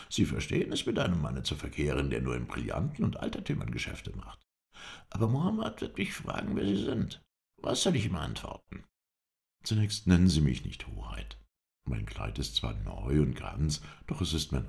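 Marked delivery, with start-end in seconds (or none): 5.1-8.8 higher, eager servile caretaker voice; a humble trader offering his services, pitched up. A narrator's reading. Baruch introduces himself to the Effendi, eager and servile.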